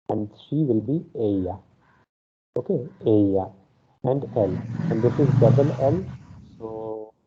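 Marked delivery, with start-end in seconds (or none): 1.2-1.6 "ella" said ay-ya; Spanish pronunciation. Shown as a demonstration. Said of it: "how double L is pronounced as ja". 3.1-3.5 "ella" said ay-ya; Spanish pronunciation. Shown as a demonstration. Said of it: "how double L is pronounced as ja".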